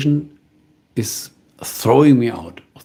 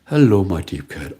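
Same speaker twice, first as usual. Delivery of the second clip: cat-owner voice; 4 semitones lower than usual. Retold or imitated. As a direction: lightly imitate talking to a cat. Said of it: "He had a completely different voice".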